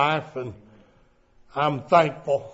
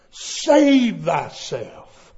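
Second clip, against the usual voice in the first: slow emphatic repeat; much slower than usual. Shown as a demonstration. Preacher repeating the phrase slowly and firmly. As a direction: Save drawn out very slowly at full voice.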